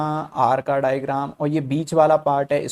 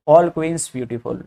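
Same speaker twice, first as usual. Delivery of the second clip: slow dictation; much slower than usual. Shown as a demonstration. Teacher reading the statement slowly.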